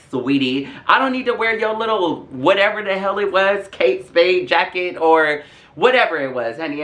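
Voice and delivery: sassy retort. Retold or imitated. Acted sassy retort to accuser.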